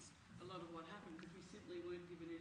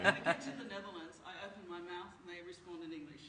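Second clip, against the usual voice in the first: louder, laughing while telling the story; real laughter on the opening words; 12 dB louder than usual. Real, not acted. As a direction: chuckle through the anecdote. Funny Netherlands anecdote.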